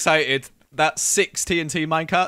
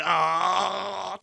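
mock anger; 4 semitones higher, 3 dB louder, much slower than usual. Real, not acted. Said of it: "I'm so angry".

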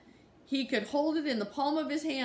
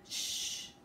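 whispered shush, much softer; 8 dB quieter than usual. Acted. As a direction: promise to be quiet in a hush. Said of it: "the little boy answered".

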